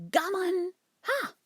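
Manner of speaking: squawking bird cry leaping very high; magpie squawk. Acted. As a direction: caw it like a cocky magpie. Magpie doctor's cackling cry.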